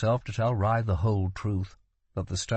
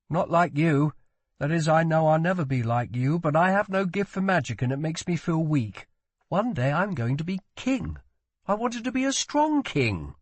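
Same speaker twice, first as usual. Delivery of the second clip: high-pitched, pained confession; insecure prince; 6 semitones higher than usual. A narrator's reading. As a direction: confess weakness in a raised voice.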